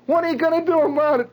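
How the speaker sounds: high, loud, fast retort; acted-out defiant comeback. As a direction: throw it back in a high, rushed voice. Retelling, acts out defiant reply.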